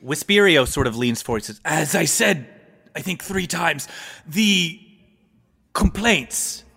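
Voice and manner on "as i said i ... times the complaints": put-on halting, formal old courtier; old adviser, insistent. Adviser leans forward to explain the complaints, formally insistent. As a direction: patiently remind the ruler, in measured pieces.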